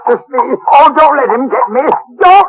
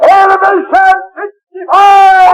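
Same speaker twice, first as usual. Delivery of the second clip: shouted order; 6 semitones higher than usual. Acted. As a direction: bark out the elevation. Gunnery orders on deck.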